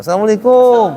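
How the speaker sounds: high, arching KUM falling away; long local greeting. Shown as a demonstration. Teacher mimics locals' greeting, high swooping KUM. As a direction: sing out the salam, swooping on KUM. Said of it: "gitu kan?".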